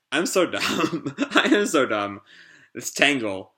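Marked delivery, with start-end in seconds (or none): 0.1-2.2 self-mocking laugh. Real, not acted. The host laughs at calling Tangle the wrong name, real laughter. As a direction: laugh it off at your own mistake.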